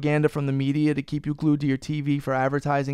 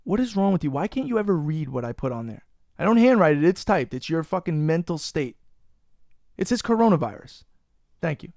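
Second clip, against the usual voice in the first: exasperated scolding; 2 semitones higher than usual. Real, not acted. Scolding cohost for misreading topic.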